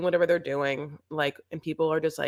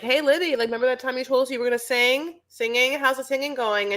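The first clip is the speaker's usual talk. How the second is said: Sean; 8 semitones higher than usual. Acted. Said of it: "Sean's like".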